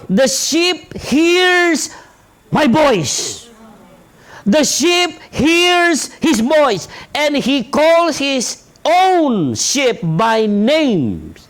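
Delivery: drawn-out, deliberate reading of the verse; slow scripture reading. Acted. Preacher reading the sheep verse to the congregation, slow and deliberate. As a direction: lay each word of the verse down slowly.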